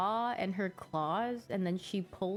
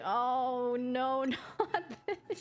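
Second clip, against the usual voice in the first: disgusted dog voice; 5 semitones higher, much slower than usual. Retold or imitated. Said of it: "She's like".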